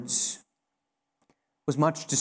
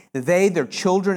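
usual speaking voice

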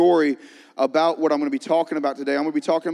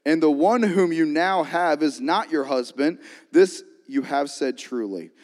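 scripture reading. Real, not acted. Reads scripture aloud.

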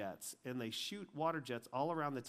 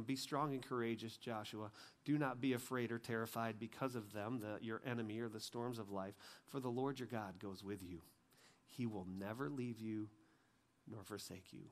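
low, soft scripture recital; solemn reassurance; 3 semitones lower, 4 dB quieter than usual. Retold or imitated. God reassuring Joshua before a battle, quietly solemn. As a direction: settle lower and softer to the last phrase.

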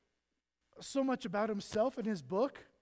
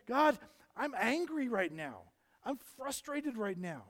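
crying out to God; 2 semitones higher, 4 dB louder, slower than usual. Retold or imitated. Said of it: "David is crying out".

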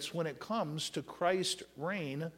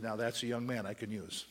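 soft voice of God; 6 semitones lower, 7 dB quieter than usual. Acted. Preacher voicing God's approval, lower and soft. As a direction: lower and softer, gently approving.

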